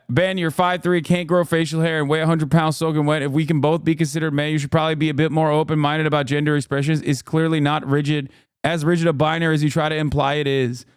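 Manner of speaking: very fast, even tweet reading; rapid read-aloud. Real, not acted. Streamer reading his old tweet aloud, rapid-fire. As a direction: rattle it off without pausing.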